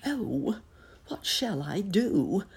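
high fretful wondering; worried. A narrator's reading. Trapped bunny frets to himself.

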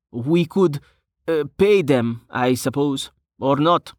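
high, tentative character voice; hesitant Brovos. Acted. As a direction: offer it haltingly in a high voice.

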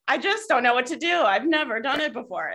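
a touch of hammed-up self-doubt; mock helplessness. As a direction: imitate someone insisting they're clueless. Mocking the same helpless thought.

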